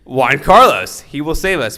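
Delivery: high, loud mock cry for a rescuer; hopeful outcry. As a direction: call out as if salvation has arrived. Boys cry out for their rescuer.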